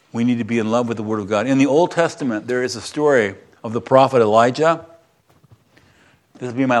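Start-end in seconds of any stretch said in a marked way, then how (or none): 0.1-1.5 faster and a little softer, echoing the line; quick quiet echo of the point; quick soft repeat. Shown as a demonstration. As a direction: run the line back quickly, half under the breath.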